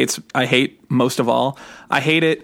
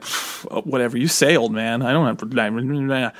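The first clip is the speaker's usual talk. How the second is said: put-on indignant kid; 3 semitones lower, 3 dB quieter, slower than usual. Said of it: "indignant kid thing".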